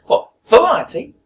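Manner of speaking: put-on high, loud old woman questioning; put-on elderly voice, loud and high; old lady. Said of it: "an old lady, at least eighty years old".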